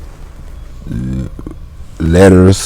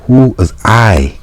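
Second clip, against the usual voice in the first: high, raised question; janitor asking; 8 semitones higher than usual. Acted. Janitor questioning the visitor. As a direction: challenge the visitor.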